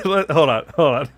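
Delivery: loud, laughing through the words; laughing as the take falls apart; laughing hold on. Real, not acted. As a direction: giggle while stopping yourself.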